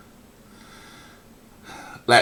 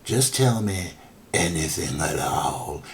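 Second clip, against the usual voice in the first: put-on New Orleans accent; 2 semitones lower, 4 dB quieter, slower than usual. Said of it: "Tim Curry doing his New Orleans accent".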